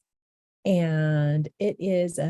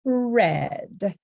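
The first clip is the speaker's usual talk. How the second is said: emphatic demo word. Shown as a demonstration. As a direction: punch out "red" with a strong D. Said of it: "the sound of the D in".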